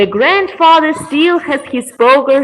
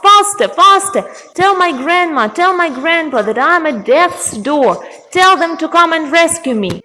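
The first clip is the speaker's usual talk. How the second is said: high-pitched, pleading call for help; urgent shout; 6 semitones higher than usual. Acted. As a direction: cry out urgently to the raven. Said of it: "the girl shouts".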